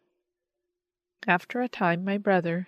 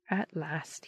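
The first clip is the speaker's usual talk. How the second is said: breathy joyful echo; 2 semitones lower, 6 dB quieter than usual. A narrator's reading. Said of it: "he echoed, with a deep-drawn breath of joy".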